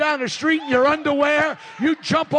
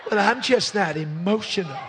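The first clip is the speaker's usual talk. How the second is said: sassy mock excuse; 4 semitones lower than usual. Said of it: "put your little sassy hip out there".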